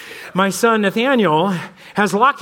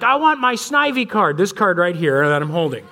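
imitating his son. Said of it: "He's like".

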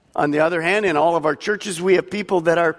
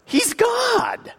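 preaching shout. Real, not acted. Preacher's climax.

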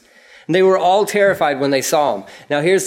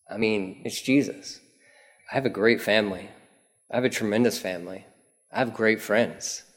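much softer, lower intimate preaching; soft sermon; 5 semitones lower, 5 dB quieter than usual. Acted. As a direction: draw them in quietly.

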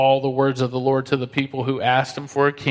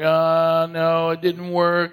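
put-on whiny kid; 3 semitones higher, much slower than usual. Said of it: "they're like".

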